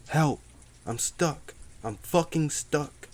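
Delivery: high, loud cry for help, fighting back tears; pained, frantic cry. A narrator's reading. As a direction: shout it in pain and panic, close to tears. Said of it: "Dave's voice was pained and frantic".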